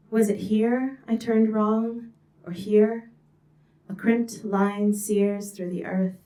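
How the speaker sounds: measured, lyrical poem recital; poetry reading. Acted.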